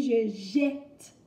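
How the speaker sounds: "jette" with an open è, "jètte"; clearly articulated "jette", vowel as in "est"; teacher's careful "jette" with open E. Shown as a demonstration. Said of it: "on prononce le E de jette".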